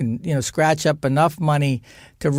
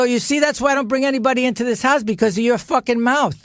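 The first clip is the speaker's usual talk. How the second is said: mock angry outburst; 8 semitones higher, faster than usual. Son yells at mother.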